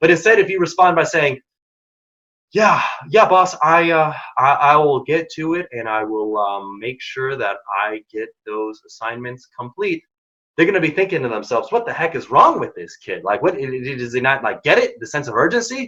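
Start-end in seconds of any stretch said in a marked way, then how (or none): 2.5-10.0 slow, halting, hesitant, full of ums. Explaining how a boss judges speech speed, the speaker demos a slow hesitant reply. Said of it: "your speed of speech".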